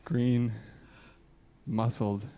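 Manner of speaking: slow, solemn recital with long pauses; earnest poetry reading, lingering between lines; dramatic poem reading. Acted. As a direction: read it like a heartfelt confession poem.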